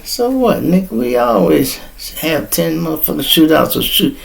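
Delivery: retold scoff.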